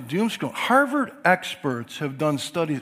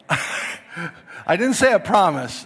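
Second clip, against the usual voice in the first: laughing correction; 4 semitones higher, 4 dB louder, slower than usual. Real, not acted. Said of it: "I'm gonna do my best to promise that".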